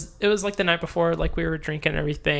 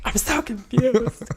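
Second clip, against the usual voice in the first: slow, higher, dragged-out confusion; mock confused; 6 semitones higher, much slower than usual. Friend replaying how lost he felt, slow and higher. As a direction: stretch it out, baffled.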